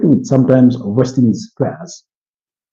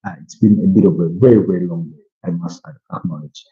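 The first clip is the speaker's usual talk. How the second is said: tired, yawning; 5 semitones lower than usual. Real, not acted. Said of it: "apologies for the over yawning".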